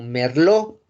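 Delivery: "merlot" slow and loud, as mer-LO; silent T. Shown as a demonstration. Teacher modelling the French grape, slow "merlot" with silent T. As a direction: say "merlot" slowly, no final T. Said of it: "La T no se pronuncia".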